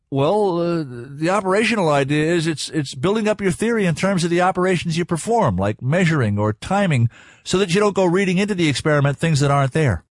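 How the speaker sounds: lightly voiced boy working out his answer; hesitant young student. Art answers the scientist's quiz, lightly voiced and hesitant.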